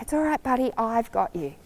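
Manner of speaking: soft, gentle reassurance; calm a frightened friend softly; nice voice. Shown as a demonstration. Rider calming a nervous horse at a party, soft and gentle. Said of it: "talking to you in a nice voice".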